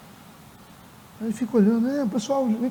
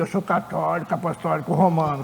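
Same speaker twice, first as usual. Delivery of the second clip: lower, softer, chest-out pride; a man proudly stating his faith, lower and softer; proud declaration; 6 semitones lower, 7 dB quieter than usual. Retold or imitated. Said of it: "Ele enche o peito".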